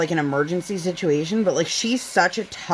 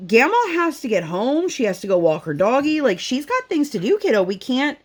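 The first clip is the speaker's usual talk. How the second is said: firm mom; 5 semitones higher than usual. Retold or imitated. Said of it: "I said".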